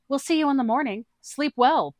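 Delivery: a nervous squeak of protest; Booma's high voice. Acted. Booma jumps in about the shark, high and flustered.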